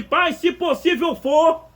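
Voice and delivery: slow, drawn-out plea to the Father; hesitant prayer. Retold or imitated. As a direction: pray it haltingly, stretching each word. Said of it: "não era mais aquela ousadia toda". (Jesus orando ao Pai, lento e hesitante)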